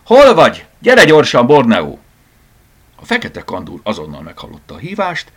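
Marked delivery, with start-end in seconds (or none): 0.0-2.0 high, loud calling for the cat; excited, full-voiced summons; shouting. A narrator's reading. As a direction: call the pet over urgently. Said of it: "kiáltotta".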